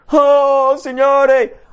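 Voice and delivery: high, loud wail to the Lord; hammed-up frantic appeal; agitated cry. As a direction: cry out in exaggerated panic. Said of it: "ogni volta che mi agito".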